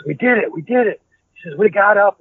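high, thrilled shout down the phone; excited. Retold or imitated. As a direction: blurt the good news high and eager. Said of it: "he was super excited".

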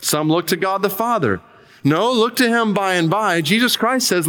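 the lay preacher pleads with his small chapel, emphatic; retold lay preacher. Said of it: "the preacher continues his sermon".

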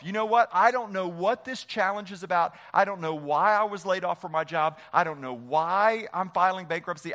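a believer talking himself into faith; pretend inner vow. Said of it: "What if you said to yourself".

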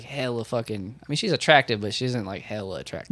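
drowsy husky morning voice; sleepy husky voice. Real, not acted. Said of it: "you got a sexy, sleepy voice".

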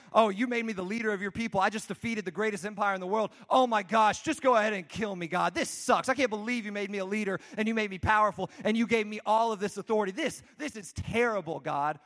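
lightly hammed-up exasperated rant; mock indignant outburst; complaining Moses. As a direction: rant at God like a fed-up complainer. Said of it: "doing the exact same thing as them".

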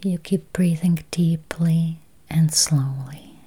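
slow, spacious meditation voice with long pauses; guided meditation. Acted. Meditation guide easing listeners toward healthy eyes, slow guided-meditation voice. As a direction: guide listeners gently into calm, unhurried.

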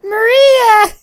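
high, loud anguished cry; Shadow voice. Pretend. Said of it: "Entirely in Shadow's voice".

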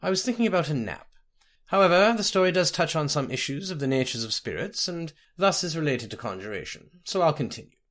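a hint of a storytelling sage; great sage. Sage resuming his tale of spirits and conjuration, lightly voiced.

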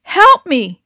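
loud desperate call for help; crying out. Acted. Injured Del calls for help in the corral, loud cry. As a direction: cry out in pain and panic. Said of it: "he cried".

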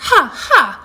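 high-pitched kitten crowing; storybook yell from a proud kitty; triumphant mock yell. A narrator's reading. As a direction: laugh in triumph, then call out high. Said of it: "yells Kitty".

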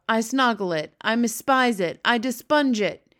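a disgusted giant grumbling on. Acted. BFG ranting about snozcumbers.

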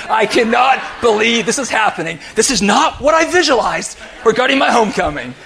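retold indignant outburst; mounting disbelief, voice lifting. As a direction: hammer out each word in mock outrage. Acts out his indignant thoughts mid-argument.

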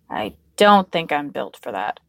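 put-on low, grumbling young man; low grumble. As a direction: grumble it under the breath. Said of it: "he grumbled".

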